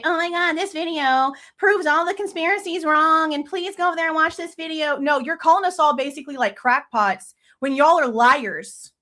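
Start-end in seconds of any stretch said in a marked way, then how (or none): 0.0-5.0 higher, mock-excited quote; mocking the parents. Vlogger mocking the parents' post, higher and gushing. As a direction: parody their breathless claim. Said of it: "to try to say".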